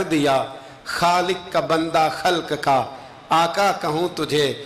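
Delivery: slow, measured poetry reading; devotional verse recitation. Acted. Preacher recites a poet's praise verses to the congregation, slow measured recitation. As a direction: recite the couplets slowly, stretching each phrase.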